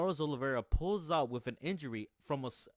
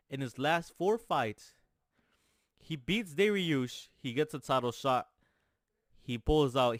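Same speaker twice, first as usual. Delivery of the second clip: louder, slowed, punched-out hype; fired up reciting the fighter's record; hyped-up rant; 3 semitones higher, 5 dB louder than usual. Real, not acted. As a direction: hammer each result like a fight announcer. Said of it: "I don't know why I'm talking like this".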